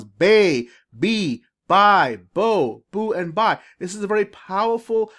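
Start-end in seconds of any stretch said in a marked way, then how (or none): 0.0-3.6 "Bay, bee, bye, bo, boo", each ending on a long open vowel; teacher's syllable drill on "bo, boo, and bye", long vowels held; long vowel sounds. Shown as a demonstration. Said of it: "what I call their long vowel sounds".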